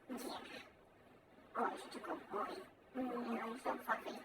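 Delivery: soft, whispered pet talk; whispered cuddle talk. Real, not acted. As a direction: whisper sweetly to the fluffy cat. Cuddling the cat.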